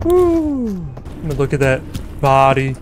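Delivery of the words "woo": excited woo. Real, not acted. Celebrating a kill.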